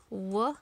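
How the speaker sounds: Wa-ave with the long A split and drawn out; stretched A sound. Shown as a demonstration. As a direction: pull the A in Wa-ave apart. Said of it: "We do hear wave".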